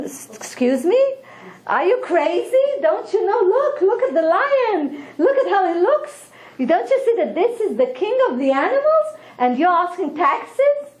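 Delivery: high, incredulous scolding with a laugh; indignant fox. Acted. Fox scolds the donkey for taxing the lion, high and incredulous.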